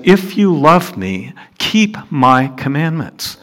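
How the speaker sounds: slow, earnest; solemn words of Jesus; earnest quote of Jesus. Acted. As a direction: say it as a gentle command. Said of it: "Jesus said".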